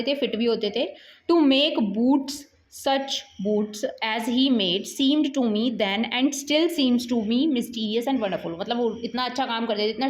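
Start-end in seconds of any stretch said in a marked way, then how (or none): 1.3-8.6 measured, deliberate reading from the book; slow textbook reading. Acted. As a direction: read each English word out slowly for the class. Teacher reads text aloud slowly. (धीमी, ठहरी हुई पाठ-वाचन शैली)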